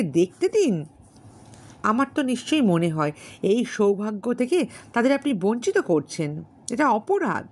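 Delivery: insistent. Acted. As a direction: Bilas pressing his point, a bit fast. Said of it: "বিলাস জোর করিয়া বলিল".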